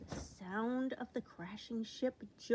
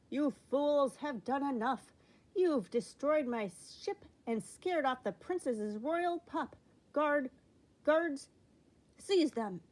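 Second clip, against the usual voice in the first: loud, high furious royal command; angry king; 5 semitones higher, 5 dB louder than usual. A narrator's reading. King to guards about pirates, loud furious order. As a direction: stamp and order the guards in a rage.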